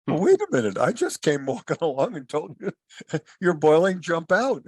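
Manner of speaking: high-pitched protest through a chuckle; mock exasperated. Passer-by telling boiling frog to jump, mock exasperated.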